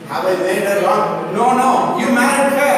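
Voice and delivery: loud, rising mock protest; loud, teasing back-and-forth. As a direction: object with building volume. Acts out husband regretting, then rebukes.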